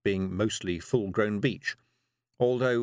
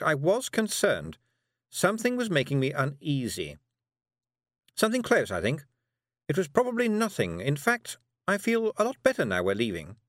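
witch voice; 8 semitones higher than usual. Acted. Witch dialogue.

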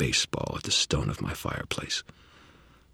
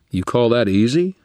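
incredulous; 7 semitones higher, 9 dB louder than usual. Acted. Incredulous retort to Harry.

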